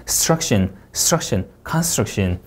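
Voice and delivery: "struction" with s-t-r run together; "construction" with a tight str cluster; no inserted vowel. Shown as a demonstration. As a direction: glide straight through "str" in "struction", no vowel. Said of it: "스트러가 아니라".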